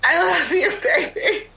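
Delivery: high, crying voice; tearful love. Acted. Telling a partner of love, crying. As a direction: squeeze the words out through tears.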